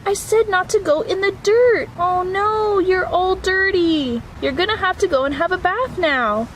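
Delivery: mock-cross mother raising her voice; scolding mom. Mom scolds pup for dirt.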